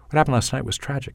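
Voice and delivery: fast, run together in one breath; Canadian accent, rushed and rising; Canadian delivery. Shown as a demonstration. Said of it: "as a typical Canadian".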